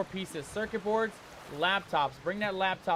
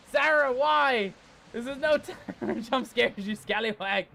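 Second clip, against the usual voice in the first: laughing exasperation; 2 semitones higher, 3 dB louder than usual. Real, not acted. Another jump scare.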